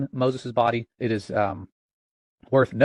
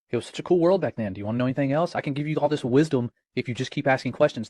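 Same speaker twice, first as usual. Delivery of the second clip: lightly voiced tempter, pitched up; mock enticing demon; 3 semitones higher than usual. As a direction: wheedle like a tempting spirit.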